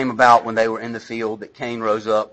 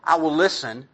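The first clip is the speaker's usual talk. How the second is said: usual speaking voice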